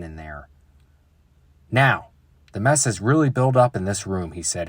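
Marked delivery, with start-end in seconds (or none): 1.7-4.3 firm papa. Acted. Papa voiced firmly.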